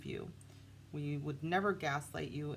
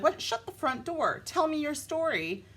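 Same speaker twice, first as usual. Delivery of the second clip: high, loud, excited disbelief; shocked excitement; 9 semitones higher, 5 dB louder than usual. Pretend. Imagined new partner hearing a matching story, thrilled and shocked. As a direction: gasp it out like juicy gossip just landed. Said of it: "And you're like".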